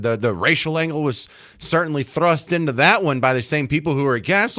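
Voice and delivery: ordinary talk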